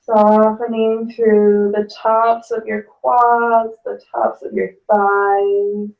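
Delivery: calm yoga teacher guiding the breath; guided yoga instruction. Acted. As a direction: talk the class gently down into the pose.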